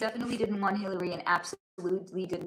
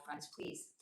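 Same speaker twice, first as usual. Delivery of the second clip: whispered plea; 6 semitones lower, 15 dB quieter than usual. Real, not acted. Pleading for book donations, losing voice.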